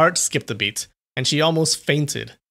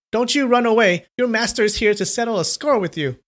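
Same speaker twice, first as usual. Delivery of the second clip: shouting; 9 semitones higher than usual. A narrator's reading. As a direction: shout the threat.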